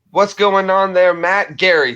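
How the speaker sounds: loud, high, stretched-out hello; big streamer shout-out; excited greeting. Real, not acted. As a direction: call out the viewer's name with a big welcome. Greeting a chat viewer.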